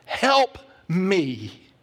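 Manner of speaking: an anguished, pleading prayer that strains upward; desperate plea to Jesus. Retold or imitated. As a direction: cry up to heaven like a worn-out believer. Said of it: "you're kinda going".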